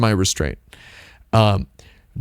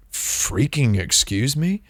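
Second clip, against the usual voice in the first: indignant; 4 dB quieter, slower than usual. Retold or imitated. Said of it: "And I said".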